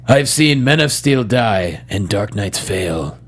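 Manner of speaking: slow, low line read; dramatic line reading. Shown as a demonstration. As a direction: misspoken "fail" at the end. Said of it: "say my favorite line".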